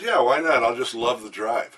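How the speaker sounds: imitated Jersey accent, loud at first; girlfriend's Jersey accent, lightly attempted; rough New Jersey accent, easing off. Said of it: "the Jersey accent".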